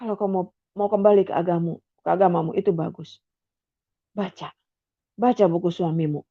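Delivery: a gentle insistent voice from nowhere; soft low voice. Retold or imitated. The voice again urging Sri to read, very soft and low. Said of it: "Jelas sekali".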